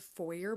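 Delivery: foyer said "FOY-er", with an R ending; foyer rhyming with lawyer; non-Canadian pronunciation. Shown as a demonstration. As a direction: say foyer with a final "er". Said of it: "that's just wrong".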